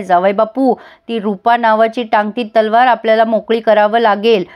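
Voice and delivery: lightly voiced cold command, unhurried; stern order. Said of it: "कडक शब्दात धनंजयला सांगितलंय".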